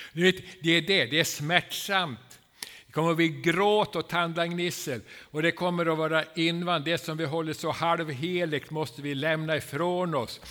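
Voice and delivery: loud, rising preacher's warning; fervent preaching. Acted. Preacher warning the congregation about painful change, loud and fervent. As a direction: pound it home from the pulpit.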